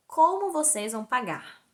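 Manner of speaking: slow, deliberate questioning; insistent repeated question. Retold or imitated. Doctor asking the patient about payment a second time, insistent. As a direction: spell the question out slowly. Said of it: "Aí ele pergunta de novo".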